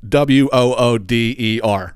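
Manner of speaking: mock-spell "W O O D E R" for water, the Philly way; spelled-out Philly accent. Shown as a demonstration. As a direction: slowly spell "W O O D E R", letter by letter, as in "wooder". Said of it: "at the bottom it said water ice".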